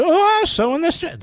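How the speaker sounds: high falsetto imitation of her; mimicking her voice going up. Host mocks a congresswoman's rising voice, high falsetto. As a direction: squeak the line up high to mock her. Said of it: "The voice went up".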